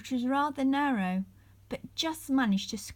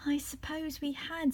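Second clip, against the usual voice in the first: sad; 6 semitones higher, 4 dB quieter than usual. A narrator's reading. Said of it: "said Molly sadly".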